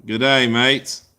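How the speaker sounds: slow, put-on Australian greeting; drawn-out Australian accent. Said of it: "you want to hear my Australian accent".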